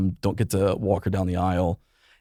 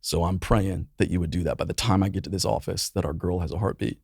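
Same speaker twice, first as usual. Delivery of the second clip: softer, hushed pleading prayer; retold prayer; 4 dB quieter than usual. Praying to God on the drive, hushed and pleading. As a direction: quietly pray it back as he did in the car. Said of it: "I am praying the entire way".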